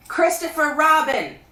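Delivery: high, loud bear calling down; Pooh voice. A narrator's reading. Pooh calling down to Christopher Robin, high bear voice. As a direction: call up from the honey tree like a bear.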